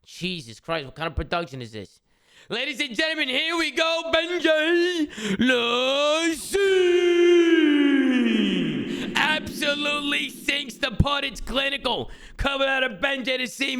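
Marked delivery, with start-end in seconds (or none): 2.5-13.8 golf commentator. Acted. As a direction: call it like a sportscaster. Announcing the putt like commentator.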